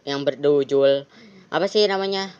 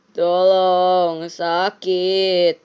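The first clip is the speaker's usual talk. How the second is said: a strained plea in a different voice, louder; injured victim; 3 semitones higher, 4 dB louder, much slower than usual. Acted. Crash victim pleading to the driver, pained plea. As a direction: beg for help like the dying victim.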